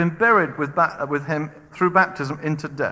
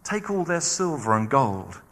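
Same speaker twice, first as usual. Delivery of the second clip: slow command. Retold or imitated. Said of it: "God said to them".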